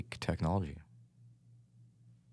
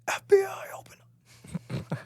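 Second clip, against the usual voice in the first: shouting; 5 dB louder, faster than usual. Pretend. Mock raid shout.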